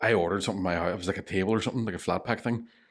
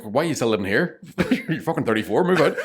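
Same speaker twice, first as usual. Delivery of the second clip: rising into a laughing shout; dad's mock rant; 5 semitones higher than usual. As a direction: tease like an exasperated dad. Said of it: "He's like".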